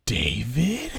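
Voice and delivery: a hushed, fearful whisper of his name; scared whisper. Retold or imitated. Captain realising too late, scared whisper. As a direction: breathe his name in sudden fear. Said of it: "and she goes".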